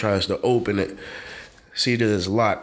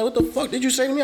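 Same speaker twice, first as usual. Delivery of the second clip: high, laughing retold threat; mock tough-guy challenge; 13 semitones higher, much faster than usual. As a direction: play the drunk squaring up. Drunk guy confronts.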